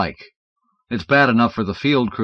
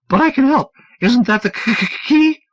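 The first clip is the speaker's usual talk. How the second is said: high, urgent stammering plea; 5 dB louder than usual. Acted. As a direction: plead fast and nervous. Dunlop's stammering voice.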